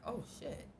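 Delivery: breathy awed whisper. Retold or imitated. Whispering in awe at the black sky above. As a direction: hush it out in shock.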